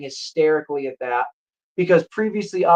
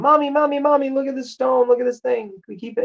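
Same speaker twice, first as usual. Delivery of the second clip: put-on high-pitched pleading child voice; excited little girls; 10 semitones higher, faster than usual. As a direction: imitate kids running to mom, pitched way up. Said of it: "they bring it to their mom".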